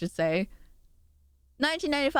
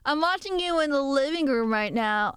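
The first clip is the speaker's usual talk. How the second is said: a lightly put-on creepy watcher; mock-menacing line to the viewer; creepy stalker voice; 3 semitones higher than usual. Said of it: "I don't know why I made you have that voice".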